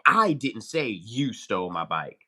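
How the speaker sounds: slow, leaning on "I"; emphasize "I", slowly; stress on I. Shown as a demonstration. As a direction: put the weight on "I" in "I didn't say". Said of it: "say the same sentence three ways".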